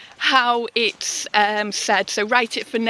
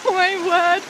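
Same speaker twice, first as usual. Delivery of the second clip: surprised; 9 semitones higher, 3 dB louder than usual. Real, not acted. Shocked at flooded path.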